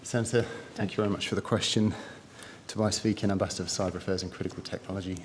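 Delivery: slightly winded, quick breathy words; out of breath. Real, not acted. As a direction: speak a bit winded after running. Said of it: "just a little bit out of breath from running downstairs".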